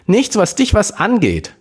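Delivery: hoch und abweisend, leicht lauter; zornig. Acted. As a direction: schnippisch zurückgeben. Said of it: "gab sie zornig zurück". (Schwester weist den besorgten Bruder zornig ab, hoch und scharf)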